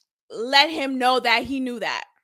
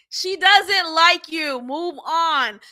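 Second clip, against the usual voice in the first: very clearly; 2 semitones higher, slower than usual. Retold or imitated. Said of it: "He was telling her very clearly".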